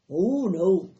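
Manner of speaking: loud, insistent objection; emphatic denial. A narrator's reading. Farmer corrects his wife, emphatic. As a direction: cut in firmly and loudly.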